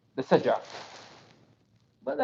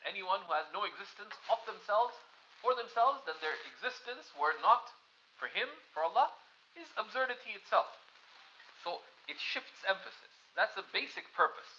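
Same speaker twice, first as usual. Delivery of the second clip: hushed; 11 dB quieter than usual. Real, not acted. Hushed reflection after a poem.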